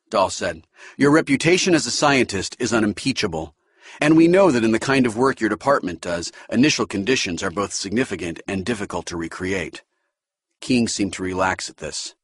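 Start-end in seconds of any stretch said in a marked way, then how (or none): 1.0-9.8 keen recruit praising the department; Dahl's voice. Acted. Dahl reassures King.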